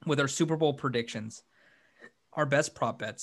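hiccups breaking the words; hiccuping. Real, not acted. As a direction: talk through the hiccups. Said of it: "Sorry, I'm hiccuping".

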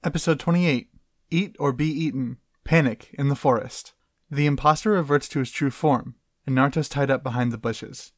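even, scripted recap narration; episode summary read-aloud. Acted. Reads prepared episode summary.

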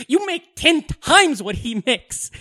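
high, slow, drawn-out mock outrage; wife going off. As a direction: lay into him like an indignant wife. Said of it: "she just goes off on him".

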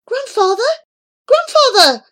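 high, urgent cry; desperate shout. A narrator's reading. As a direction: call out desperately to grandfather. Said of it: "How Remus tried to shout".

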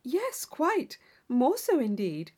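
a hint of a naive girl chatting at a ball; Catherine's voice. Young Catherine chatting with her dance partner, lightly eager. Heroine answers.

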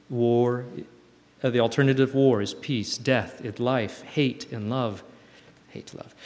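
earnest reading of a prayer, some slow lines; a sincere prayerful reading; reading a prayer letter. Acted. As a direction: read it like a heartfelt prayer. Reading old letter to God.

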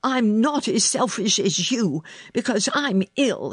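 high, indignant snap; snapping. A narrator's reading. Sick boy defends himself to girl, snapping. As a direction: snap back in a childish quarrel. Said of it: "he snapped".

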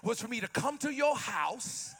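preaching Jesus. Acted. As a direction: build toward the shout. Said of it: "He said".

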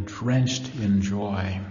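very slow, lingering on drenched; savoured slowly. Shown as a demonstration. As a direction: draw out drenched in joy lovingly. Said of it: "I love that last idea".

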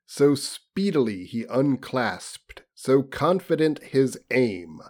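lofty reading, slowing toward the end; hammed-up literary audiobook voice; story narration. A narrator's reading. Reads novel aloud.

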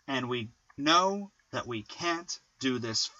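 slow "and we KNOW that we CAN'T"; two weak words, then stress KNOW and CAN'T; anapest stress. Shown as a demonstration. Poet improvising an anapest example, anapest stress. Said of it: "unstressed, unstressed, stressed".

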